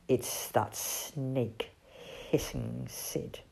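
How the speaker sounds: low, slow, soft owl voice; hushed warning. Acted. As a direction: warn them quietly and gravely. Owl spots the spying snake.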